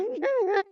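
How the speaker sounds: a high, raspy, scratchy laugh caught at the back of the throat. Shown as a demonstration. Guest showing how the singer laughs, high raspy laugh. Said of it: "kind of high pitch in the back of her throat".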